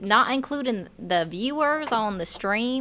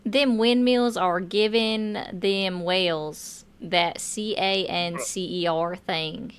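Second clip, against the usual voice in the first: mock politician; slower than usual. Mocking a political talking point.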